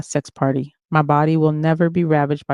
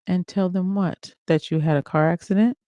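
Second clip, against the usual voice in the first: bland, no energy. Acted. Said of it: "He spoke blandly with no energy".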